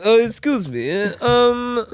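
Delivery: high, odd comic stranger voice; the Moon. Retold or imitated. Stranger approaching a man at night, high odd voice. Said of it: "sounded a bit like the Moon".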